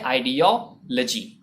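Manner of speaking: "आइडियोलॉजी" split as aai-di-yo, luh-jee; measured aai-di-yo-luh-jee for आइडियोलॉजी; careful pronunciation. Shown as a demonstration. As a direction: pause before the short "luh-jee" in "आइडियोलॉजी". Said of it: "और word होता है".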